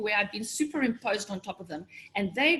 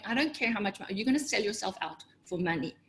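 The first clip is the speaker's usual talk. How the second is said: inner voice; 2 semitones lower, 5 dB quieter than usual. Retold or imitated. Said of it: "that little voice inside me was going".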